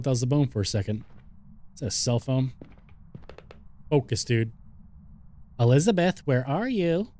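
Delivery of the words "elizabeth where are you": calling out. Real, not acted. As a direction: call her name into the house. Calling the ghost by name.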